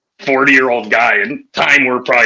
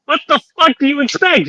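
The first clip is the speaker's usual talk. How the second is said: high, mocking disbelief; incredulous retort; 13 semitones higher than usual. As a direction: throw it back at her, amazed she's surprised. His retort to wife.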